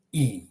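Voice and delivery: "E" as a long ee; English E sound. Shown as a demonstration. Teacher shows Croatian i, "E" as ee. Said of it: "like the English E".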